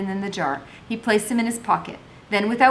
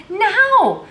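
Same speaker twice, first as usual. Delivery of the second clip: sharp, high, loud command; stern command; 14 semitones higher, 7 dB louder than usual. A narrator's reading. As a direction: snap it out at the girl. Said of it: "she said sternly".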